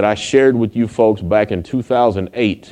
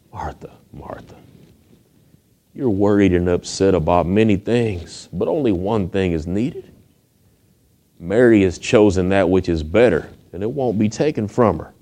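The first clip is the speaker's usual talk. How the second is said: soft, lower, gracious voice; gentle Jesus; 3 semitones lower, 3 dB quieter than usual. Retold or imitated. Jesus answering anxious Martha, soft and gracious. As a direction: gently correct a worried friend. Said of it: "Gently, graciously, He says".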